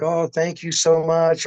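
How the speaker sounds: put-on high, slow little old lady thanks; sweet old lady. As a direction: lightly play a grateful sweet granny, slowly. Grateful old lady voiced in story.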